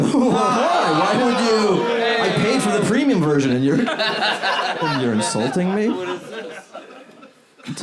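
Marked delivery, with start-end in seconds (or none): 0.0-5.9 high, loud indignant outburst; outraged customer. Pretend. Comic boyfriend fuming at the premium AI girlfriend, high and loud. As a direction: rant like you were ripped off. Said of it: "He's bigger than you".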